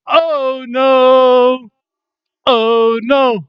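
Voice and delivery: high, excited "Oh no!"; excited cry. Pretend. Fan cheers the wrestler's name, high and excited. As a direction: cheer for your hero's name. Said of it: "He's my hero".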